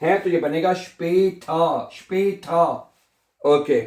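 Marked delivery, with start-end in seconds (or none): 0.7-2.6 स्पेठा as "shpay-taa", no R at the end; स्पेठा in two held syllables, open ending; silent final R. Shown as a demonstration. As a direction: teach स्पेठा with the R dropped. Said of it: "उसको pronounce नहीं करता".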